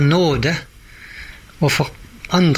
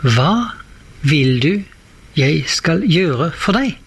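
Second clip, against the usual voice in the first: slow, stretched-out tender asking; gentle question; slower than usual. Retold or imitated. Elisha asking the widow what she needs, slow and gentle. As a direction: draw each word out, offering help. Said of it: "og så spør Elisa".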